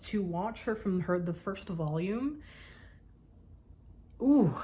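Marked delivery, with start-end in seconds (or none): 4.2-4.5 loud, high gushing ooh; a loud fangirl squeal of delight; dramatic gush. Real, not acted. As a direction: swoon over a favourite character. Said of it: "so that was dramatic".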